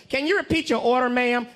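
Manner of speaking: loud imitated order-taker; mock loud customer-service query; loud drive-thru worker. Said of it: "loud as hell".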